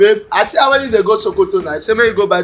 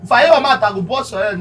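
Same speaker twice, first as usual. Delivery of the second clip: angry threat; 3 semitones higher than usual. Acted. Threatening over broken plate.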